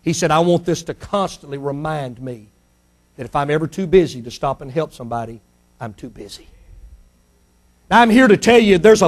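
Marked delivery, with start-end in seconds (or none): 0.3-6.5 low, soft, fading to almost nothing; solemn vow. Acted. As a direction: vow it quietly.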